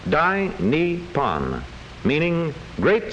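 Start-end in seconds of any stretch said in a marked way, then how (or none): 0.1-1.6 "Dai Nippon" read slowly, each syllable spelled out; careful Japanese reading. Shown as a demonstration. Narrator reading the characters to viewers, slow and deliberate. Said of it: "it reads".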